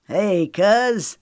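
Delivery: light country drawl on hey cuz; a hint of a Southern bumpkin greeting his cousin; country bumpkin accent. A narrator's reading. Jackson greeting his cousin, light country drawl. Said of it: "he drawled in a country bumpkin accent".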